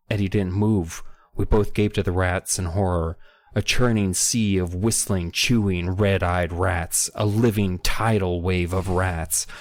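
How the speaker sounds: steady, dramatic audiobook reading; story narration. Acted. Podcaster reading a scary rat chase aloud, story narration. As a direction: read it out as a suspense story.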